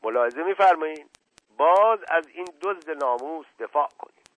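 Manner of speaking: understated indignant anger; mildly heated, outraged complaint; voice trembling with anger. Acted. (خشم خفیف با صدای لرزان)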